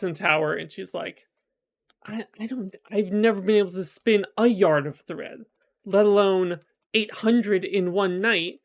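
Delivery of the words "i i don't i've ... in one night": retold freak-out. Locked-in daughter facing an impossible task, mildly freaking out. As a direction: act out a flustered girl's protest. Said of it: "so she's freaking out".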